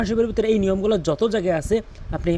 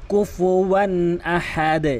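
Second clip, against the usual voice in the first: slow recitation; much slower than usual. Shown as a demonstration. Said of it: "বলবেন হচ্ছে আহাদে".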